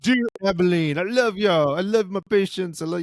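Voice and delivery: mock farewell post. Doctor saying goodbye to Abilene patients, mock sentimental. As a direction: ham up a teary goodbye to the town. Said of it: "and it's like".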